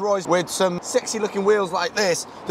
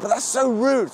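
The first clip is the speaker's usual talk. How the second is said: mock indignant girl; 8 semitones higher than usual. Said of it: "And she's like".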